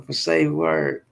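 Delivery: slow breathy whisper of for say word; whispered slowly. Shown as a demonstration. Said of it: "we say".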